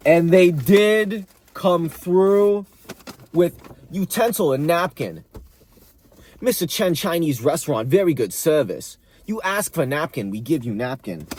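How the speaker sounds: lightly voiced Chinese restaurant owner accent. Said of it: "bust out into my Chinese accent".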